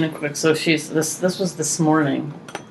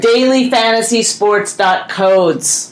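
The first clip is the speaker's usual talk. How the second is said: sponsor plug. Acted. Host plugging a fantasy sports site, announcer-style. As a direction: stretch out the sponsor's name like an announcer.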